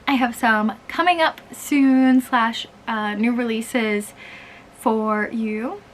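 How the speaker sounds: stiff robotic delivery. Real, not acted. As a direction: talk like a robot. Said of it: "I'm talking like a robot".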